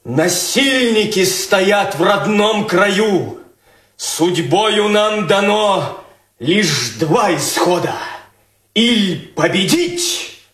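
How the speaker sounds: solemn verse recital; poem recital. Acted. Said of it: "можно я стихами?".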